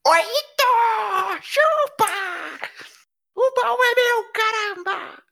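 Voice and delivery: triumphant shout; excited shout. Real, not acted. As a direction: gloat over the win. Wins the chest roll. (grito de vitória)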